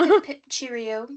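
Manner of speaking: mock British farewell; lightly put-on British accent. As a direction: imitate a Brit, playfully.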